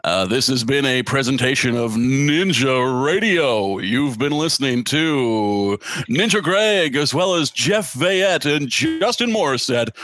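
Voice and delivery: announcer voice. Acted. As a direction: read the outro like a radio host. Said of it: "in your announcer voice?".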